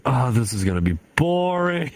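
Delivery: hammed-up reluctant whine; mock boredom. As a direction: stretch it out in playful dismay. Acted dread at dull commission.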